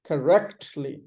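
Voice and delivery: Correctly as kuh-REKT-lee; "Correctly" weak at first, strong in the middle; stressed R syllable. Shown as a demonstration. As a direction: hit rect in Correctly. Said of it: "Ah has the stress".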